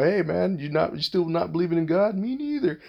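mocking. Mocking atheists meeting up.

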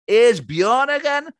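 show announcer. Shown as a demonstration. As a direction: announce the feature title with flair. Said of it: "it could be".

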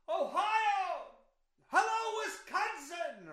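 mock stadium rock star greeting; hammed-up concert hello; rock star shout. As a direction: yell it like a rocker hitting the stage.

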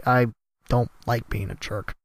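ordinary delivery

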